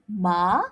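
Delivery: ma rising upward; second tone. Shown as a demonstration. Teacher showing second tone, numb. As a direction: lift ma like a question. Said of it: "The second tone".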